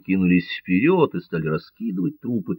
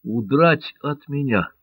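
the corsair rages at the governor's escape; furious; 6 semitones higher than usual. A narrator's reading. Корсар в бешенстве. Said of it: "вскричал корсар в бешенстве".

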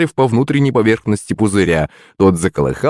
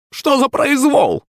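high, slow crone voice; old witch voice; slower than usual. Acted. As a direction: babble like an old hag. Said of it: "залепетала старуха".

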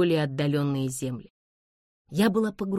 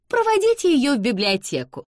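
put-on high, louder, commanding young lady; curt cut-off; 10 semitones higher, 5 dB louder than usual. A narrator's reading. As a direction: cut mama short with an order. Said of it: "отрезал ангел". (отрезала властно, высоким голосом)

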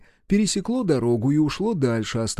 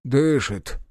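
relieved. Acted. Medic to the soldiers over the fallen man, relieved. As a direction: let out the word with relief. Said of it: "облегчённо сказал".

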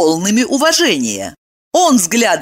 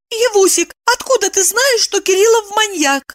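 voiced high as a woman, urgent; alarmed heroine speaking; young woman's voice; 14 semitones higher than usual. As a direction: raise the voice into the heroine's register. Evdokia asks friend on phone.

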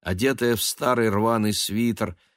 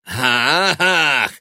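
high loud scoffing "Ah!"; spiteful scornful laugh; 8 semitones higher, 8 dB louder than usual. A narrator's reading. Son scoffing at his mother's complaint, spiteful laugh. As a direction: spit out a nasty mocking laugh. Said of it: "со злобным смехом".

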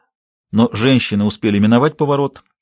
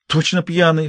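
mild snort; 6 semitones higher than usual. A narrator's reading. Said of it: "фыркнула Роуз".

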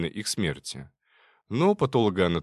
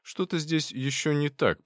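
ordinary delivery

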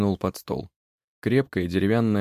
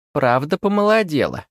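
lightly voiced pleased witch; 8 semitones higher, 6 dB louder than usual. A narrator's reading. Witch preening.

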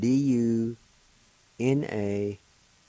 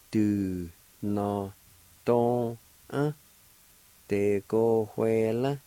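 1 slow careful repeat; much slower than usual. Shown as a demonstration. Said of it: "like this".

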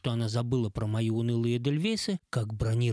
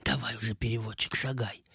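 playful whisper. Acted. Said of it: "игриво шепнула".

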